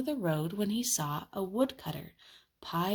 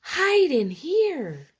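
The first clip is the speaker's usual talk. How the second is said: high, loud, slow call; urgent cry; 10 semitones higher, 8 dB louder, much slower than usual. Acted. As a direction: urge them inside loudly. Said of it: "cried the third little pig".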